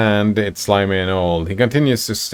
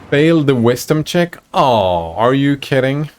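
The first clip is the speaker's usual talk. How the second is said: disbelief; 6 semitones higher than usual. Real, not acted. Player reacts to failed roll.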